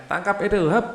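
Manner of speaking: high called signal to a friend; calling signal. Shown as a demonstration. Teacher shows a child calling as the ball flies. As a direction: call out to the catcher as you throw. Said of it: "Gitu ya, ngasih tanda ya".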